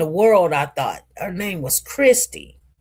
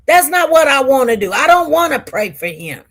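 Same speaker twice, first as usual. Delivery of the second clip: louder, faster, heated refusal; mad refusal; 2 semitones higher, 3 dB louder, faster than usual. Real, not acted. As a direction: push back hard and fast. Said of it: "I'm mad".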